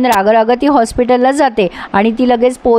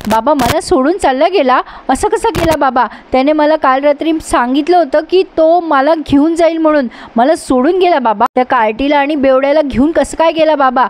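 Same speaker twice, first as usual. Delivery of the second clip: higher, imitating a sulky girl's wail; whiny outburst; 4 semitones higher than usual. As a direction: retell the tantrum half-voiced, pitched up. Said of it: "कशाला आरडाओरडा करतेस".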